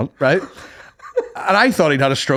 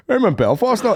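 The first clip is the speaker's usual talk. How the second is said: mock Belfast accent; 6 semitones higher than usual. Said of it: "comedian comes to Belfast".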